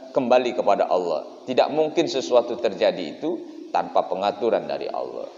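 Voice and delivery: ordinary talk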